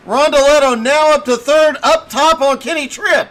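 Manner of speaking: hoarse, straining voice; voice cracking. Real, not acted. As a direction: voice giving out while calling. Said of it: "I started losing my voice".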